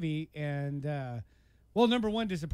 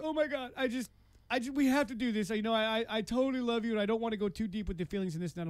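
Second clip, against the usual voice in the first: higher-pitched mock upset, no real sobbing; imitated tearful plea; 5 semitones higher than usual. Man voicing her crying breakup speech, mildly tearful imitation. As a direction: plead in a higher voice as the upset woman. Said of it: "starts crying and stuff".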